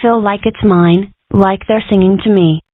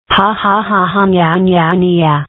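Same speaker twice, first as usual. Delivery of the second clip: mock sing-song nya-nya taunt, slow at the end. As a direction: rub it in like a bratty kid. Kid taunting mom's rule.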